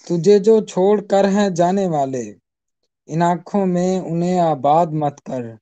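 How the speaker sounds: measured ghazal recital, each line lingering; poetry recitation. Acted. Repeats couplet for audience. (غزل کا ترنم سے پڑھنا)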